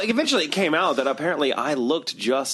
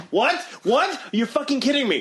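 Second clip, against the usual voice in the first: high, punched disbelief; incredulous outburst; 9 semitones higher than usual. Retold or imitated. Shopper handed an old woman's bill, retold incredulous outburst. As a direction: react as if just conned, voice leaping up. Reacts to huge grocery bill.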